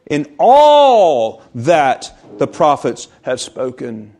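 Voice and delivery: slow, weighted "all" in the phrase; emphasis on all. Shown as a demonstration. Preacher reading scripture, leaning on "all". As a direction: stretch the phrase, stressing "all". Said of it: "has the emphasis upon the all".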